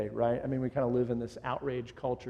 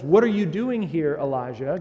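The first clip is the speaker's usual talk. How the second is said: a raised, open invitation to speak, louder; inviting question; 7 dB louder than usual. Retold or imitated. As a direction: call him in kindly to state his business. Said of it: "he's inviting him to state his business".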